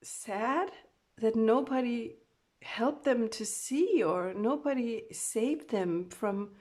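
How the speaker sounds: loud, slow distressed plea; emotional distress. Acted. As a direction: pour it out in anguish. Channeling distressed spirit loudly.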